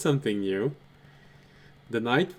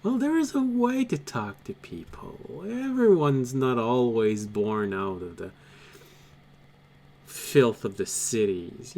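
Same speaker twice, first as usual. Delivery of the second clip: haughty noble; 2 semitones higher than usual. Acted. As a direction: scold them about manners. Noble lecturing on politeness.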